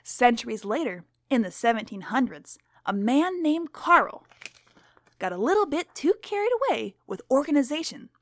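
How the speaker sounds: lightly voiced stern schoolteacher; strict teacher. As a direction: read to the class as a stern teacher.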